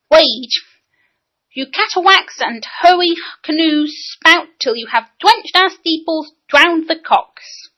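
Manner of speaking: put-on high, slow boyish declaiming, R dropped or made W; "Wage", "catawacks", "hurry canoes" without R; child ranting Lear, every R lost. A narrator's reading. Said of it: "what you mean by drowned the cocks".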